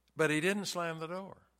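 ordinary delivery

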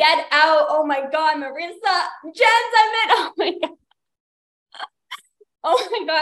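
losing it, excited freaking-out babble. Livestreamer reacting as viewers join the stream, freaking out. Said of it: "I'm like freaking out".

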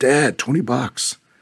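mock thrilled little boy voice, high and excited. Father retelling his son running to a twenty-dollar bill in the hallway: imitating excited Peyton. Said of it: "And he was all excited".

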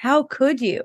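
appalled disbelief. Retelling what a nephew said at a restaurant, imitating a horrified nephew. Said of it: "He's just horrified".

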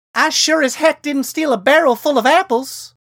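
very high, very loud, rising shot-back retort. Answering Riken's accusation about her chores, she shoots back, her voice rising. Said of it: "she shot back, her voice rising".

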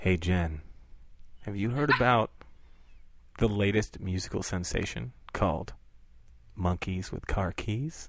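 put-on seductive voice, low and sexy. Showing that a sexy voice makes anything sound sexy, in a sexy voice. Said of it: "let me put on my sexy voice".

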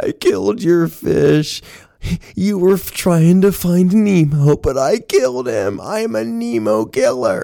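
play-acted tearful sobbing, pitched very high. Retelling Chelsea going to the client, imitating Chelsea sobbing. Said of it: "she's sobbing".

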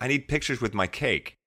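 soft voice with a faint disdain. Retelling what a woman said to the listener: mimicking slight disdain. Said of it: "with a slight air of disdain".

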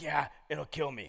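rasping, scratchy, raspy delivery. Quoting a man's reply to the speaker's question, in a raspy voice. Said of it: "he's got a real raspy voice".

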